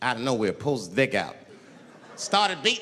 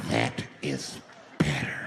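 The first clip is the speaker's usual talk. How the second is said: much lower, drawn-out menacing retake; low creepy approval; 3 dB quieter, slower than usual. Retold or imitated. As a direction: say it slow and deep like a satisfied creep. Same words, low retake.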